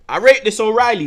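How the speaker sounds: enthusiastic praise. Real, not acted. Praising player.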